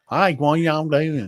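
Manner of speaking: slow South Georgia drawl; playing up a slow South Georgia accent. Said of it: "Like, South Georgia".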